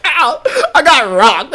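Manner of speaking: loud, high mock cry of hurt; hammed-up reaction to a hard hit; retold pain. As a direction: play being knocked flat, dragged out. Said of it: "I was like".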